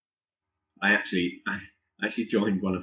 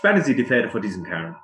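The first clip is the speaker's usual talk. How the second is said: German command; 4 dB louder, faster than usual. Acted. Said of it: "he says".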